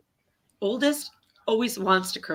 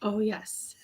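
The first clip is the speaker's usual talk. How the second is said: whispering; 6 dB quieter than usual. Real, not acted. Whispered aside near child.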